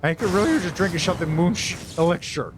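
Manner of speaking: put-on lightly slurred drunk talk; slurred speech. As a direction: slur the words a bit like a drunk. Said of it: "Thaberdine's speech is slurred".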